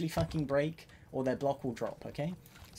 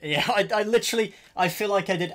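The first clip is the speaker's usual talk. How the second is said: laughing; 6 semitones higher, 10 dB louder than usual. Real, not acted. Laughing at own failed damage.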